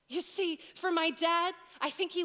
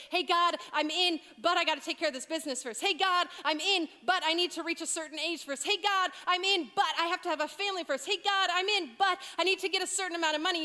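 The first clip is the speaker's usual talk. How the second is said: mock excuses; 3 semitones higher, 4 dB louder than usual. Mimicking excuses of believers.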